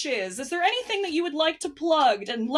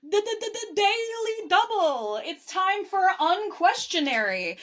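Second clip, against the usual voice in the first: raised-pitch quiz show intro; game show announcer; 4 semitones higher than usual. Pretend. Host kicking off the rapid question round, game show announcer. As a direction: announce the round with playful fanfare.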